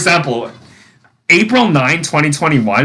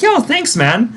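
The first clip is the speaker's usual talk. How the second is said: "Yo" leaps very high; squeaky-high teen thanks; 10 semitones higher than usual. Retold or imitated. Teens thanking her for the money, voice shooting up. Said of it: "they were like".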